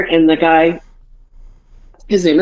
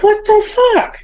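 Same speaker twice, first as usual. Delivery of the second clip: retold shocked outburst. Retelling shock at slipping leg.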